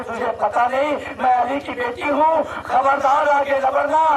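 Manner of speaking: sermon voice climbing to a high cry; impassioned lament preaching. Acted. Preacher's climax in retold scene. (जोश और दर्द से चढ़ती मसायब की आवाज़)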